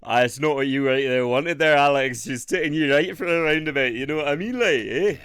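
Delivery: loud hammed-up West Country greeting; West Country accent.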